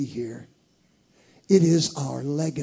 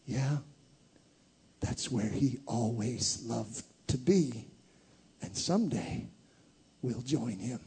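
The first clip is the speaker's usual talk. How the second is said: soft grandmother; 3 semitones lower, 7 dB quieter than usual. Acted. Grandmother answers child softly.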